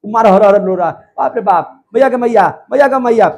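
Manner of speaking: hammed-up wailing for mother; mock patient's cries. Patient wakes mid-operation, mock cries of pain. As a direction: act out a patient crying out in pain, half in jest. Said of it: "देखिए ना doctor साहब चिल्ला रहा है".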